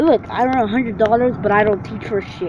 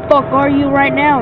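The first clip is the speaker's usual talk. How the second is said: angry shout; 5 semitones higher, 6 dB louder than usual. Real, not acted. Shouting for hiding player.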